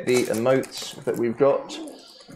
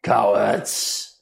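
dopey cartoon bellow; 3 dB louder, slower than usual. Booming voice continues accusing.

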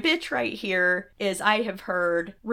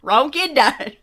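loud, very slow, drawn-out quote; hammed-up movie line, stretched out; deadpan parody; 5 semitones higher, 5 dB louder, much slower than usual. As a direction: repeat it as an overblown running gag, higher. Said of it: "in the next scene going".

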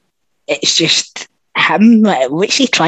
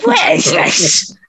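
baffled Elijah Wood; slower than usual. Retold or imitated. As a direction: play a bewildered actor stuck on set. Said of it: "Elijah Wood must have been like".

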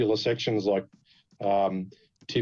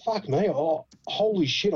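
mock-panicked swearing, pitched up; retold scared thought; 6 semitones higher than usual. Driver watching his car being searched, retold fright. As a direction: retell a silent oh-no moment, voice rising. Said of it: "was fucking scared".

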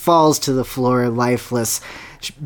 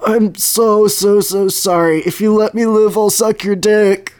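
a lightly voiced frightened troll, higher; pleading troll; 6 semitones higher than usual. Troll begging Bowser for mercy, mildly frantic. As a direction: beg for your life. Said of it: "And he says".

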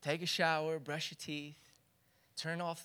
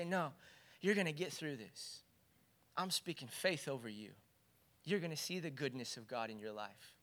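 softer and lower, gently comforting; reassuring encouragement; 3 semitones lower, 6 dB quieter than usual. Shown as a demonstration. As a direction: speak faith over someone who is low. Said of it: "lift their heart up and say".

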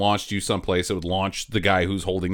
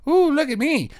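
mock dainty voice; 13 semitones higher, 3 dB louder than usual.

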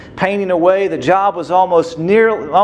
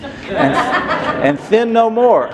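laughing; 5 semitones higher, slower than usual. Real, not acted. Laughing through the punchline.

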